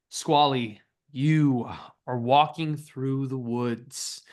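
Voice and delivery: slow, measured scene setting; game master narration. Acted. Game master describes red-cloaked figures at the lake, measured narration. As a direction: lay out the scene slowly, with deliberate pauses.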